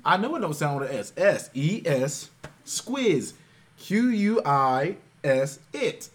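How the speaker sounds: letters called out loud, slowly, around "Squiz"; sounding out words. Shown as a demonstration. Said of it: "I sounded it out".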